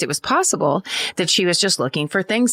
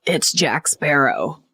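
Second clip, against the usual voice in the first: slurred man's voice; 4 semitones lower, slower than usual. Retold or imitated. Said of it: "a gravelly, slurred man's voice responded".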